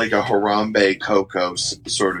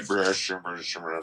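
mock dazzled whisper; 9 dB quieter than usual. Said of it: "It just sounds like".

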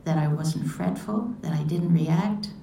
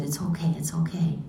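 gentle reassurance; 3 semitones lower, 3 dB quieter than usual. Retold or imitated. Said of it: "I just smiled at her and said".

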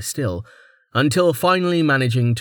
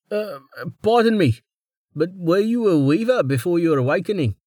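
higher, surprised humble craftsman; curious weaver; 7 semitones higher than usual. A narrator's reading. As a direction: blurt it out, amazed but polite. Wes asks, curious and surprised.

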